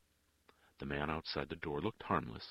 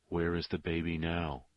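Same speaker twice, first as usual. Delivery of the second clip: plain reading voice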